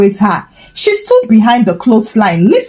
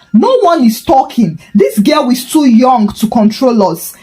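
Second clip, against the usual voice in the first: high, heated accusing yell; shouting; 4 semitones higher than usual. Acted. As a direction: shout over the crowd. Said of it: "Mama Favor shouted louder".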